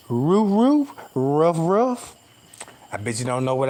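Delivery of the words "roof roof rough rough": dog barking. Shown as a demonstration. Showing viewers his dog language, mock barking. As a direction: bark like a small dog. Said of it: "I'm finna show it to y'all".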